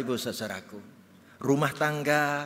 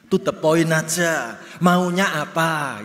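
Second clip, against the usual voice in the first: blunt reply; 4 semitones higher, 8 dB louder, slower than usual. Retold or imitated. Husband's blunt reply read out.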